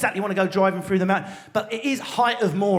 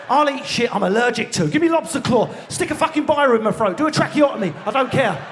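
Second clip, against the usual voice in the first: greedy rant; 4 semitones higher than usual. Acted. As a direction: rave like a glutton at the buffet. All-inclusive greed rant.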